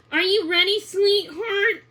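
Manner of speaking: a touch of a fond mother calling; mom's voice. A narrator's reading. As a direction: mom gently checking on her daughter. Mom calls from the doorway.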